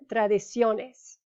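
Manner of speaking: tradiciones drawn out slowly with stress on ne; slow stress demo. Shown as a demonstration. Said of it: "It follows the rule".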